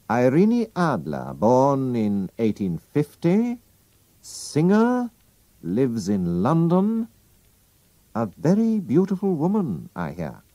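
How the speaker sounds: a hint of a detective reciting facts; lightly voiced Holmes. Holmes recites Irene Adler's record to the king, lightly voiced.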